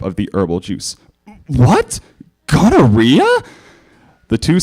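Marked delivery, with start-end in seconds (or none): 1.5-3.3 booming high shout of outrage; royal Canterlot voice. Acted. Princess shocked by the diagnosis, booming royal shout. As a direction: blast it like a royal decree. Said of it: "the traditional royal Canterlot voice".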